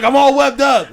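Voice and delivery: high, plaintive voice; stuck Marine. Retold or imitated. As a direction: complain over the intercom while trapped. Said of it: "He's like".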